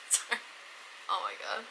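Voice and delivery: drowsy, worn-out voice; tired from no sleep; sleep deprived. Real, not acted. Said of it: "I'm so sleep deprived right now".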